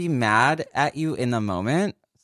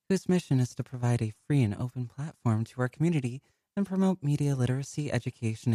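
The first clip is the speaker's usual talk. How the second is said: announcer voice. Acted. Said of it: "trying so hard to keep my, like, stealthy announcer voice".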